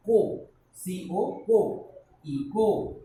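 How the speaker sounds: co said loud and slow, as in eco; spelled and sounded out. Shown as a demonstration. Teacher to class: slowly sounding out co and eco. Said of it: "Here we are pronouncing it".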